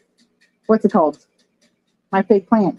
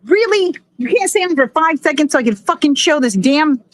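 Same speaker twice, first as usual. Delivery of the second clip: exasperated rant; 5 semitones higher than usual. Real, not acted. Light keeps turning off.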